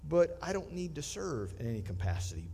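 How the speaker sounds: mock churchgoer. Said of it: "in your mind".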